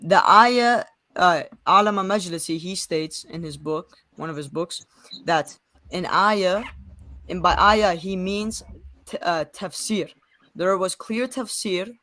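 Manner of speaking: deliberate, slow phrasing with spaced-out key words; slowed-down explaining. Real, not acted. Young man re-explaining after being asked to slow down, slow and deliberate. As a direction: spell it out slowly, piece by piece. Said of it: "say that slowly".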